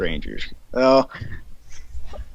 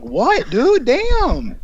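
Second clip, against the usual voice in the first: high mock confusion; 12 semitones higher, much slower than usual. Retelling his reply to his brother's shouting, a high mocking squeak. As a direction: pitch shoots up into a squeaky what, dude.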